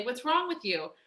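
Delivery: berating inner critic. Retold or imitated. Coach imitating the harsh inner voice beating yourself up, berating. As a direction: hammer yourself with mock scolding questions. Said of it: "beat yourself up all the time and say".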